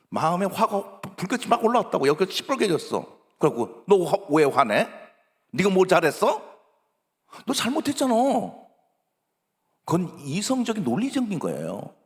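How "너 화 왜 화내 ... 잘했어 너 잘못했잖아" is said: a touch of a scolding parent, louder; lightly voiced parent snapping back at an angry child; half-hearted scolding; mock scolding parent.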